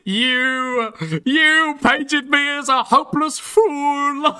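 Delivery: high, hammed-up indignant mockery; shaking with anger. Mocking a critic's angry statement.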